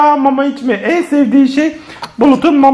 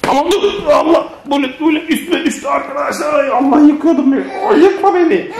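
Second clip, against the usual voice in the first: laughing alarm; 3 semitones higher than usual. Real, not acted. Child topples onto laughing parent.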